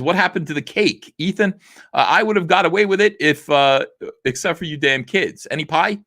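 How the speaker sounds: high, whiny cartoon villain caught at last. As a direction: squeal it like a busted Scooby-Doo villain. Reading a cartoon villain's complaint.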